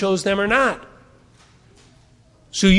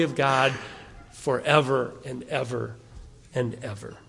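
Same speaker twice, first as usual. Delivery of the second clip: pastor closing the sermon, hushed and reverent; softening benediction; 3 semitones lower than usual. Acted.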